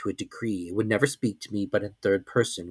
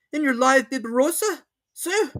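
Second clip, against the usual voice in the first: higher, steady servant listing specimens; servant's voice. A narrator's reading. Servant checking on the master's collection, higher even voice.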